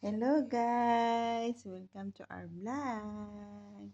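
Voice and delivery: slow, drawn-out welcome; loud hello easing into a long, lazy welcome; vlog greeting. Real, not acted. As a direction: stretch out the last word of each phrase.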